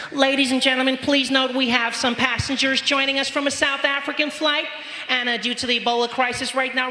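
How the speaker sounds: high, polite cabin-crew PA voice; flight attendant announcement. Retold or imitated. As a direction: announce it like a cheery air hostess over the intercom. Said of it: "she comes on her little microphone".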